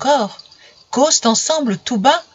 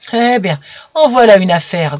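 a louder, grumbling complaint from the jealous dog; 5 dB louder than usual. Acted. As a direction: grumble it like a sulky dog who feels pushed aside. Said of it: "grognait Diavolo".

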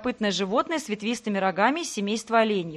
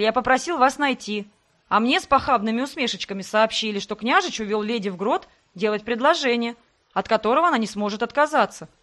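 raised voice. Acted. Sebastian raises his voice defending himself to her. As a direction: raise your voice back at her. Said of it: "Тоже повысил голос Себастьян".

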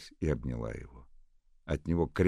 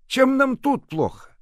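much higher, louder, slow; protesting old nurse; 14 dB louder, slower than usual. A narrator's reading. Old nurse refusing to move, protesting. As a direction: plead to stay put.

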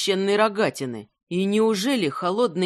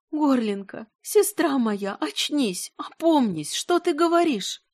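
tearful calling; 6 semitones higher than usual. Acted. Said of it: "сквозь слёзы звала её".

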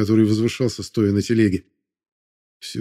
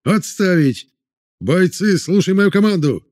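commanding shout; 8 semitones higher, slower than usual. A narrator's reading. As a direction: take command of the men. Officer commanding crowd.

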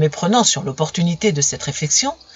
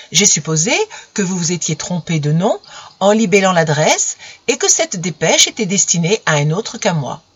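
feigned naturalness. Acted. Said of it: "avec un naturel très bien imité".

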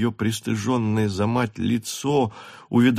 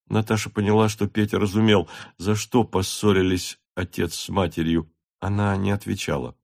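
usual speaking voice

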